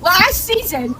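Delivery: worked-up mad. Real, not acted. Player protesting to game master after last season, worked up. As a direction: build from refusal to high-pitched outrage. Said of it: "I'm actually so mad right now".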